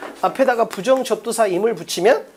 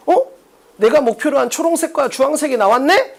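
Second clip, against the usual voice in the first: acted discovery; 5 semitones higher than usual. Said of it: "이렇게 딱 기다려버리라고".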